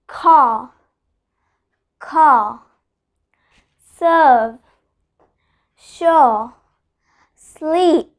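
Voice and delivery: "Car", "serve", "sure", "sleep" each alone, vowel loud and long; "Car", "serve", "sure", "sleep" as loud, isolated teaching examples; stressed vowels. Shown as a demonstration. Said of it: "I'm only stressing the vowel part".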